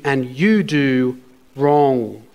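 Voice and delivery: slow lead-in, WRONG set apart; pause, then drop WRONG deliberately; stress on WRONG. Shown as a demonstration. Preacher reading a rebuke from scripture, emphasizing wrong. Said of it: "I'm gonna emphasize the word wrong".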